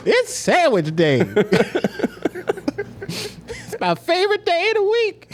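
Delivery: very high, laughing Nigerian voice; squeaky excited Nigerian order; Nigerian accent. Retold or imitated. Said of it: "I wanna do the voice".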